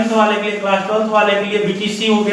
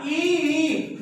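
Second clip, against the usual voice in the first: put-on baby crying; 4 semitones higher, 7 dB quieter than usual. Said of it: "बच्चा रोया".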